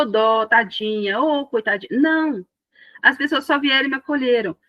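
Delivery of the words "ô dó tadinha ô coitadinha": mock pity. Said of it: "Ninguém chegou e falou".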